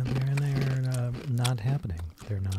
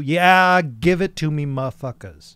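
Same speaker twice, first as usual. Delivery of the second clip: booming jolly Santa, slow; hammed-up greedy Santa; 4 semitones higher, 6 dB louder, slower than usual. Santa too jolly, voicing Santa.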